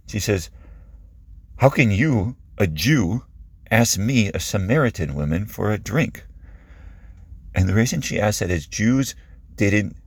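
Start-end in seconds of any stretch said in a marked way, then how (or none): 1.6-6.2 mildly shocked, halting disbelief; startled. Acted. Samaritan woman startled by a Jewish man's request, mildly shocked. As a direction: question him in puzzled surprise. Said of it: "she just kinda startles".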